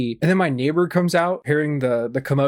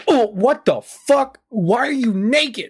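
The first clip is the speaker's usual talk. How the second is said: higher, slow, stretched-out disbelief from the sergeant; shocked sergeant; 9 semitones higher, 4 dB louder, slower than usual. Retold or imitated. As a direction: act the sergeant gaping at a naked soldier. Sergeant sees him naked, retold.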